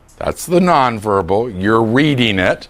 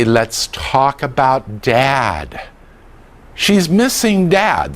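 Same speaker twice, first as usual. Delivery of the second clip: gentle, understanding; much slower than usual. Shown as a demonstration. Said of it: "Or you can say".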